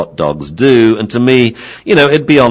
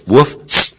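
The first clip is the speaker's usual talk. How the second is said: bark and spray hiss; 6 semitones higher, 4 dB louder than usual. Shown as a demonstration. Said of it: "the collar works like this".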